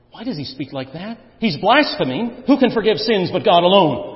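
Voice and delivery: lightly voiced scornful scribe; a touch of muttered indignation; scribes' inner grumble. Preacher voicing the scribes' silent objection, mild scorn. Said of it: "This is what they're saying in their heart".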